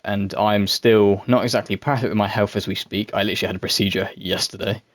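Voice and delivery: dopey, drowsy from sedation; sedated. Real, not acted. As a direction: still groggy from the anaesthetic. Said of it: "if I sound a bit dopey and dozy".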